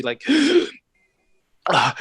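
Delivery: sharp gasp back to life; sudden startled gasp; revived gasp. Acted. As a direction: suck in air as if waking from death. Dwarf gasps back to life.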